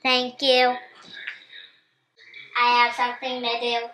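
put-on child's playful robot voice. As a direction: kid pretending to be a robot. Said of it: "she sounds exactly like a robot".

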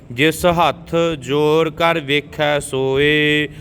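careful teaching recitation in Punjabi; scripture recitation. Shown as a demonstration. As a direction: recite evenly, drawing out the long vowels.

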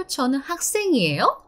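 학생이에요 ending with the voice going up; rising question tune. Shown as a demonstration. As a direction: lift the end of 학생이에요 like a question. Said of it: "make the ending tone up in the end".

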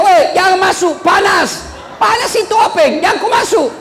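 high-pitched hollered warning; mock warning yell. Villager warning a man off the lift, high mock shout. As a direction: cry out in comic alarm. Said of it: "dia teriak".

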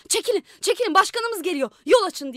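high, loud call to clear the way. Acted. Young man clears the street for the mayor, calling loudly. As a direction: push the crowd aside with your voice.

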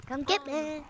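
a lightly put-on gremlin voice, taunting; mild gremlin taunt. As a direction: tease them as a little gremlin. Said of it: "it sounds like this".

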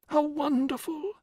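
very high, breathless wonder; awed whisper. A narrator's reading. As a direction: whisper it in rapture. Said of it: "she whispered at last".

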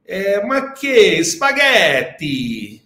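put-on slow, drawn-out Italian-accented broken English; mock Italian accent. Italian friend in LA speaking broken English, mock Italian accent. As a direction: ham up an Italian immigrant mangling English. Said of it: "aquele macarrônico".

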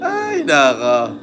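a long breathless laugh, then a slow sigh; helpless laughter fading into ay nako. Real, not acted. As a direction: laugh yourself out. Laughs hard after the joke.

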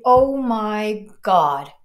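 slow reverent exclamation; awestruck gasp. Retold or imitated. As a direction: breathe it out in wonder. Retold awe at seeing Jesus.

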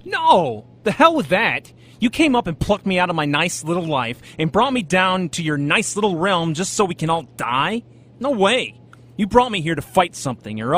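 fired-up protest; indignant outburst. Acted. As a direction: slam down the defeatism. Hero refuses to give up.

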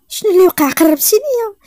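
high, loud panicked cry; alarmed shout. Acted. Nayra waking to find him close, frightened shout. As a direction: jolt awake in fright and shout.

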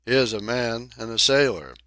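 put-on a boy's cheeky chirp; cheeky piping. Charley teasing the newcomer in a cheeky pipe. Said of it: "piped in a cheeky voice".

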